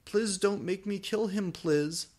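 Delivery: high desperate plea; hammed-up pleading; begging. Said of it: "I begged".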